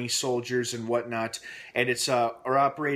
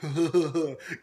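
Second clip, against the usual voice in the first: higher, gloating little put-on laugh; proud mock chuckle; 4 semitones higher than usual. Jerk proud of his handiwork, mock chuckle. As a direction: imitate a self-satisfied jerk's laugh. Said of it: "like, being proud of his handiwork".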